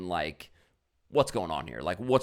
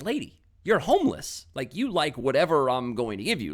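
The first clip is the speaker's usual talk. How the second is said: exasperated retort; 4 semitones higher, 5 dB louder than usual. Retold or imitated. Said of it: "I'm like".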